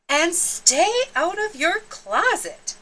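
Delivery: high, sharp parting warning from mom; lightly voiced mother; mother's parting order. A narrator's reading. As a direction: fire off one last order at the door. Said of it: "she added".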